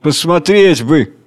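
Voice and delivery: a hint of cooing tenderness; old man dreaming of a child; tender voice. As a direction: coo about the little children. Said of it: "говорит нежным голосом".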